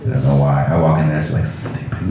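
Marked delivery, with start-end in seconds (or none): 1.4-2.1 soft, voiceless mock old-lady mutter; barely voiced old grandma imitation; grandma impression. Grandma greeting the grandchild walking in, soft voiceless mock mutter. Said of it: "but I have a grandma".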